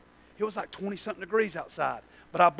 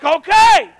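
reluctant okay; 17 dB louder than usual. Retold or imitated. Reluctantly agreeing to keep working.

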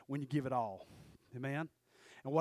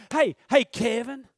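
raised, louder mocking call to Kevin; 4 semitones higher, 8 dB louder than usual. Preacher mocking a man calling his buddy, loudly. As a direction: shout it up like calling your buddy over.

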